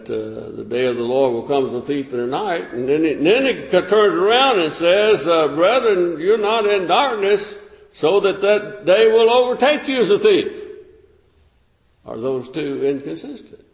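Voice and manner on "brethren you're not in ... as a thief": measured, deliberate Bible reading; scripture reading. Acted. Preacher reading scripture to his congregation, measured. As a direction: read the verse out to the congregation.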